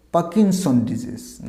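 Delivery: পার্কিনসন as "pa-kin-son", slowly, r dropped; corrected pronunciation. Shown as a demonstration. Teacher answering for learners, পার্কিনসন with silent r. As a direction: say পার্কিনসন disease slowly without the r. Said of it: "উচ্চারণটা আমরা কী দেবো".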